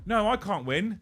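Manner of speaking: high, protesting refusal; flustered Joe. Retold or imitated. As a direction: mimic a friend waving off a prize. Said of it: "And he went".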